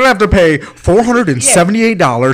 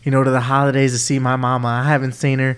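put-on Southern accent; 3 semitones lower than usual. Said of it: "my little South fucking accent on".

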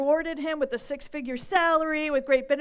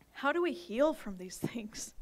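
whisper; 5 dB quieter than usual. Real, not acted. Aside question to congregation.

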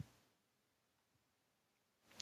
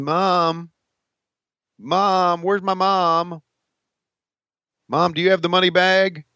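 raised calling voice, pitched up; yelling across the room; 7 semitones higher, slower than usual. Pretend. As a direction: call out to mom in another room. Calling for mom, money bag.

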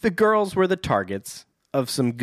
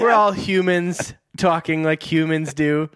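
fake human; 2 semitones higher than usual. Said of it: "one of those scenes where it's like".

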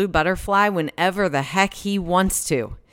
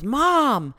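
retold yell; 7 semitones higher, 5 dB louder than usual. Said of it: "she yells".

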